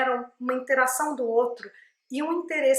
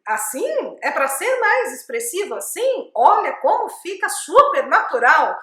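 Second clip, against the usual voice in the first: exaggerated, louder sing-song delivery; mock overexpressive; 4 semitones higher, 6 dB louder than usual. Shown as a demonstration. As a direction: ham up the expressiveness on purpose. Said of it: "Nem um pouco".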